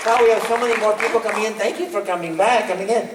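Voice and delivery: high, fast booming welcome; booming sing song welcome. Acted. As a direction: greet the crowd with a boom.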